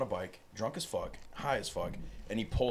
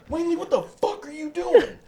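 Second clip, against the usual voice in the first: high, loud, incredulous outburst; retold shout at a troublemaker, edged with laughter; hammed-up outraged scolding; exasperated yelling; 9 dB louder than usual. Retold security guard confronting Wayne.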